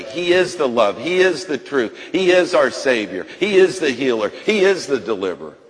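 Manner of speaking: measured, emphatic proclamation, stress on is; preaching. Real, not acted. Preacher proclaiming to the congregation, emphatic. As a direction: declare each line with weight.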